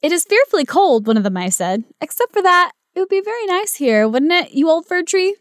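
high squeaky mouse voice; little mouse voice. Acted. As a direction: pitch it up like a tiny mouse. Mouse speaking in the story.

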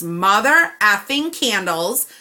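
slow, punchy mock curse; emphatic. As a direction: drag out mother effing with venom. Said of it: "I'm thinking this in my head".

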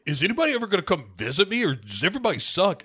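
put-on fast, high whiny kid. Michael asking the doctor for visitors, high and whiny. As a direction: whine it out like a bratty child. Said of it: "where he's like".

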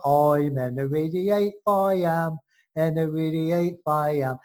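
put-on funny English accent. Host mocking a band's song, funny English accent. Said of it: "in that funny accent".

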